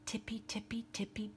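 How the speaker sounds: sneaky bunny whisper. Acted. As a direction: whisper like tiptoeing bunnies. Bunnies sneaking.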